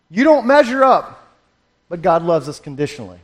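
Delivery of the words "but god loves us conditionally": says "conditionally" by mistake, quick and dropping; fast, quieter misspoken "conditionally"; slip of the tongue. Real, not acted. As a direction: rush "conditionally" before catching the error. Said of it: "Or, excuse me".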